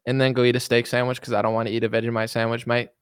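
half-hearted Australian accent. Shown as a demonstration. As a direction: let the Aussie attempt slip, then land "mate". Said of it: "trying to get my Australian accent down".

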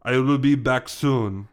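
slow Russian henchman, lightly voiced; large man. Large man leaving the cage, slow henchman voice. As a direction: announce it slowly as the henchman. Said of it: "The large man interrupts".

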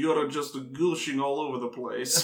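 teasing mock Russian accent. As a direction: keep up the hammy Russian accent, amused. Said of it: "your Russian impression".

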